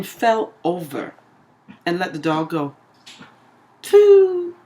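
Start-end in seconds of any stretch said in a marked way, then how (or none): 3.8-4.5 loud, high "phew" sound effect; quick high-pitched vocal whoosh. Acted. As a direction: imitate something shooting away. Mimics dog getting loose.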